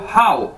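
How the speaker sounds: हाउ like English how; हाउ modelled plainly, clearly; Chinese hǎo. Shown as a demonstration. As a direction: say हाउ as one gliding syllable. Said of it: "इसको कैसे बोलना है आपने".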